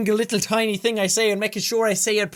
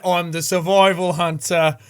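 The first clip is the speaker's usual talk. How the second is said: slow, lower mock Australian drawl; terrible Aussie accent; 5 semitones lower, slower than usual. Mocking his old video by repeating it in a slow, bad Aussie accent. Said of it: "the terrible accent".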